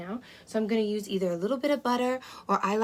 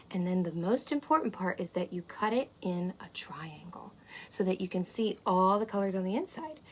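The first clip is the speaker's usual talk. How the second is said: ASMR whisper. Acted. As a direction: breathe the words like a secret. Whispered cooking instruction.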